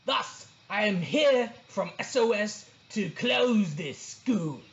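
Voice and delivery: booming boar. A narrator's reading. Boar reading the bad report, booming. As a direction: boom out each grade with scorn. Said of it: "the wild boar boomed on".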